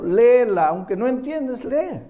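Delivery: insistent. Shown as a demonstration. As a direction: push back firmly with "léela". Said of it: "Pero si no entiendo".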